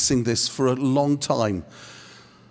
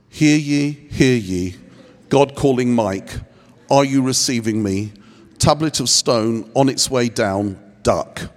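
mock a grand heavenly announcement, a bit lower; booming voice of God; 5 semitones lower than usual. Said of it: "a Charlton Heston voice".

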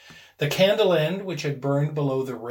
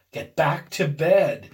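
unsteady; 6 dB louder, slower than usual. Acted. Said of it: "he said unsteadily".

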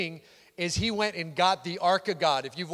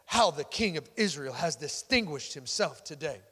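imitating a disdainful wife's sarcasm; scornful wife; 3 semitones lower than usual. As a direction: read it as a withering mock compliment, falling at the ends. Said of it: "That's exactly how she sounded".

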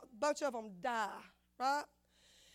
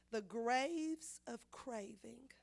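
slow, soft emphasis; 3 semitones lower, 5 dB quieter, much slower than usual. Real, not acted. Repeating the name for weight.

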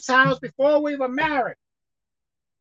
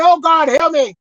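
mock scream; 5 dB louder than usual. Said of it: "But you too busy screaming".

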